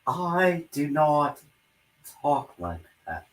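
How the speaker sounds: a hint of Boris Karloff. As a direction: drag it out like an old horror star. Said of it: "channeling his, uh, Boris Karloff".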